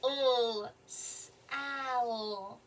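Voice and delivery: "L" as a held bare sound, then "sal" stretched out; sounding out and blending. Shown as a demonstration. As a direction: hold "L" alone, then blend "sal" slowly. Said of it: "how do we spell Sal".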